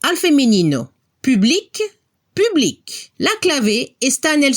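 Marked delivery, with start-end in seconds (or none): 1.2-3.1 Public with a hard K at the end, both times; French public, rising and then falling, K heard; final C sounded. Shown as a demonstration. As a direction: close French public on an audible K. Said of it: "si escuchamos la C al final".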